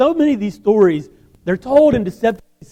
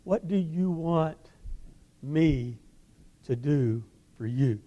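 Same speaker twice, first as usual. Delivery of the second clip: gentle; 5 semitones lower, 12 dB quieter, slower than usual. Acted. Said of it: "Jesus asked the question".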